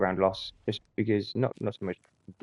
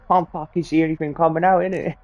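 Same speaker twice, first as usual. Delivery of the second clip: higher mock rude-boy voice; rude boy impression; 7 semitones higher than usual. Mates on the range, mocking his rude boy talk. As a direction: take the mick as a wannabe rude boy. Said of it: "meant to be some absolute rude boy".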